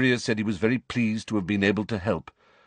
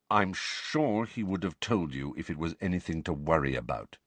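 steady; 3 semitones lower, 5 dB quieter than usual. Acted. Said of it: "said Sirius steadily".

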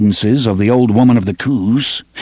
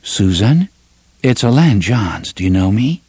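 calm and soothing. Acted. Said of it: "his voice was calm and soothing".

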